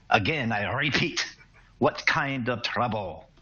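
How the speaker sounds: slow, pointed, stressing what; stern repeat. Acted. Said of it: "He narrows his eyes".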